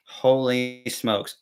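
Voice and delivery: slow, drawn-out awe; mock amazement. Storyteller recalls realizing she is perfect, in drawn-out amazement. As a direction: stretch it out like an awed realization. Retells his amazed thought at her.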